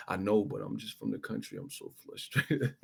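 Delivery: softly voiced country boxer; lightly mimicked country excuse; Wilder impression. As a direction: plead it quietly, slowing at the end.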